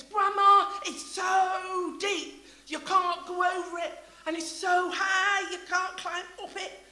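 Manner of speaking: lightly voiced small child, high and eager; granddaughter's words. Preacher quoting granddaughter to congregation, light child voice. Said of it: "my granddaughter sings".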